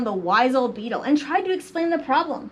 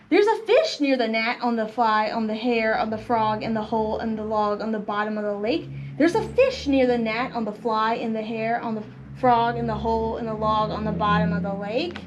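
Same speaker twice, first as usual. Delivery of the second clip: strong start, then a low even chant; rhythmic story reading, dropping in pitch after the opening; cumulative rhyme read-aloud; 3 semitones lower than usual. A narrator's reading. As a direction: rattle off the list in a lower, steady rhythm.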